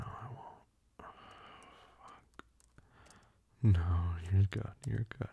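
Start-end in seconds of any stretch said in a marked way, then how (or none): 3.6-4.7 reassuring. Acted. 4.9-5.3 reassuring. Acted.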